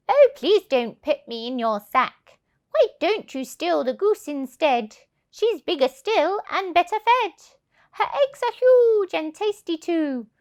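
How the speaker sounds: loud, high begging voice; pleading duck. Acted. Duck begging the thieves, high and pleading. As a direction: plead for mercy, then coax. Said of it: "the downy duck began to quack".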